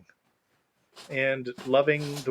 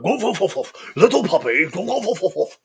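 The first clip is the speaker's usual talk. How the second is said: movie quote impression; 3 semitones higher, 3 dB louder than usual. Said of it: "where he's like".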